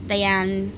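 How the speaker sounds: Diane said as die-AN; "Diane" in two syllables, no final vowel; name variation. Shown as a demonstration. Host listing variations of her name, Diane as die-AN. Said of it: "a bunch of different variations".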